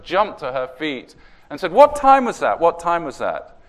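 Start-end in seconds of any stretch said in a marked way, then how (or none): 1.7-3.5 excited Norwegian lady, much higher and louder on the first ask; Norwegian accent. Retold or imitated. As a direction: jump up and blurt it in a Norwegian accent. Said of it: "Um, in a Norwegian accent".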